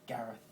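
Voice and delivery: "Gareth" said slowly and clearly for them to copy; patient teacher saying "Gareth"; careful demo. Shown as a demonstration. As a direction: model "Gareth" for a learner. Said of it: "watch my lips and just follow this".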